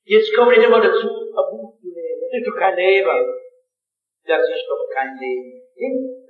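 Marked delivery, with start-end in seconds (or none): 0.0-3.3 put-on Swabian accent. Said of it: "Ich war Schwäbisch".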